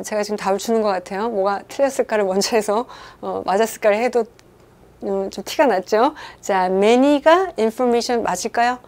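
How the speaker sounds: normal talking voice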